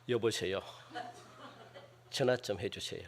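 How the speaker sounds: absurdly soft, low call for help; drowning yet barely raising the voice; tiny, unbothered request; mock calm plea. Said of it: "이렇게 하는 사람 못 봤다고요".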